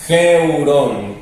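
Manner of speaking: "geurón" opening on a Spanish jota; rough breathing. Shown as a demonstration. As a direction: say "geurón" with the J sounded before the E. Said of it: "la J del espíritu áspero". ("geurón" con jota antes de la E)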